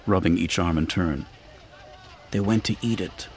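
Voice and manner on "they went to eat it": soft, sullen mutter. A narrator's reading. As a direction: mumble it unwillingly. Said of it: "she muttered".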